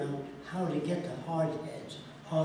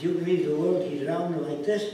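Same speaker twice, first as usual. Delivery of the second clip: put-on louder Middle Eastern accented question, rising on "this"; Arab accent, rising on "this"; Arab man's accent; 3 semitones higher, 6 dB louder than usual. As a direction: mimic him holding up his hands, incredulous. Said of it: "He says".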